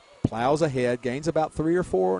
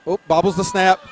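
surprised; 5 semitones higher, 7 dB louder than usual. Real, not acted. Fumbled snap.

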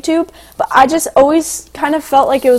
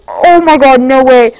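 excited exclaim; 7 dB louder than usual. Retold or imitated. Thrilled at meeting a young fan.

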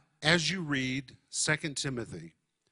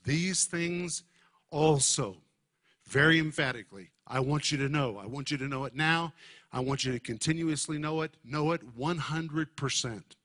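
strong, insistent urging in an apostle's words; forceful, emphatic preacher's appeal. Retold or imitated. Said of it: "Paul is speaking in very strong terms".

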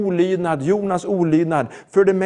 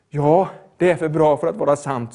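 lower, settled affirmation; assured agreement; 3 semitones lower than usual. Real, not acted. Preacher answering the doubter about grace, calmly affirming.

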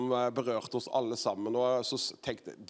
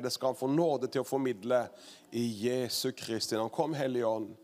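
prayer. Real, not acted. Host leads a prayer.

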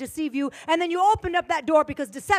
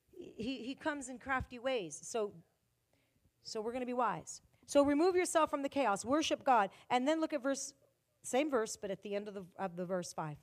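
quiet aside; 3 semitones lower, 10 dB quieter than usual. Acted. Drops to soft aside.

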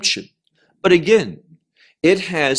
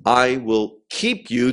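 "you" in "I will keep you" leaned on; stress on you; 4 semitones lower than usual. Shown as a demonstration. Preacher closing the verse, stressing "you". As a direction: land the weight on "you". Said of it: "The emphasis is on you".

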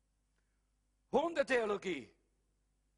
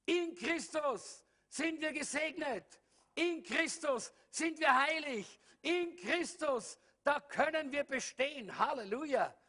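high, slow and weighty, each "In" leaned on; solemn slow preacher's declaration; slow emphatic preaching; 6 semitones higher, slower than usual. Real, not acted. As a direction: proclaim it slowly with full conviction.

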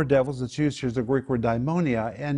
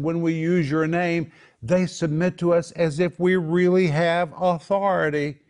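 higher-pitched acted elation; elated; 5 semitones higher than usual. The seventy tell Jesus about their authority, elated. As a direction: marvel at it with rising excitement. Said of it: "these seventy came back so elated".

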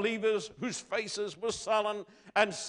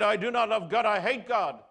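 loud, higher angry cry of defiance; Luther's outburst; 4 semitones higher, 5 dB louder than usual. Retold or imitated. Luther shouting his hatred at his confessor, loud and angry. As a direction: fling out the words in anger, higher and louder. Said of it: "He said".

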